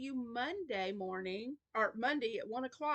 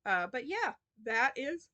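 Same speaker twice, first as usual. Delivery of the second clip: yawning through words; 3 semitones higher, 5 dB louder than usual. Real, not acted. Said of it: "forgive my yawns".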